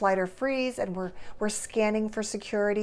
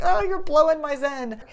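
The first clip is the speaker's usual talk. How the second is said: higher, louder put-on complaint; mock exasperated yell; 7 semitones higher, 6 dB louder than usual. Mom to kids banging on the closet door, mock exasperated yell.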